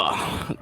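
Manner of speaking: low effortful groan. Acted. Knocked-out guard getting up slowly, low stiff groan.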